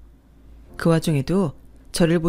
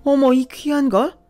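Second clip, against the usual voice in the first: higher-pitched lady of the house, outraged; indignant rich wife; 5 semitones higher than usual. Acted. Wife confronting the rude woman in the lobby, indignant and higher. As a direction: defend her friend with shocked indignation.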